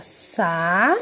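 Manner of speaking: "sa" held long on its own; slow standalone "sa"; separated syllable. Shown as a demonstration. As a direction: stretch "sa" as a single syllable. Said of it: "vamos separar aqui".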